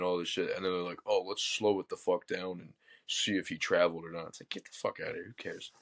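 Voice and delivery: normal talking voice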